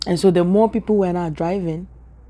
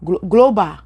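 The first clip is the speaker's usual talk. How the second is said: "global" in an African accent, ending in an open "-bah"; 4 dB louder than usual. Shown as a demonstration. Speaker showing listeners how Africans say "global", African accent. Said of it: "with an African accent".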